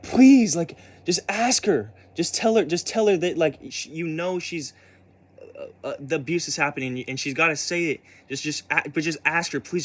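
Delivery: begging through tears, pitch up high; desperate plea. Retold or imitated. Pleading with the policeman in the back seat, near tears. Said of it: "I'm, like, crying".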